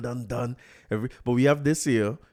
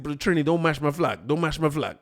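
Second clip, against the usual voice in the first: lightly imitated Guyanese accent, pitched higher; a hint of a Guyanese man's accent; 4 semitones higher than usual. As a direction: warn him off in a mild Guyanese accent. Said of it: "that was my Guyanese accent there".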